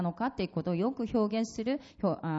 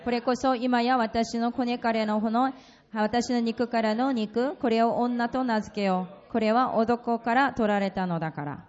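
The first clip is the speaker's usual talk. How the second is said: scripture reading. Acted. Interpreter reads scripture aloud.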